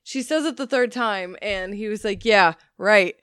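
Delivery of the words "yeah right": shitty tone. Retold or imitated. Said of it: "all shitty".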